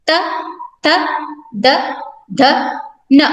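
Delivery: त थ द ध न said one at a time with pauses; teacher reciting त, थ, द, ध, न, each letter alone; consonant recitation. Shown as a demonstration. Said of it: "इन व्यंजनों का उच्चारण करें".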